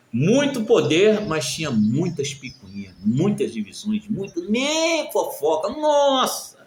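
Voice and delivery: slow drawn-out MUITO, rising high on "Nossa!"; exasperated emphasis. Real, not acted. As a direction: stretch "muito" and "muitas", then exclaim "Nossa!". Exclaiming over church gossip and quarrels. (ênfase exclamada, "muito" bem arrastado)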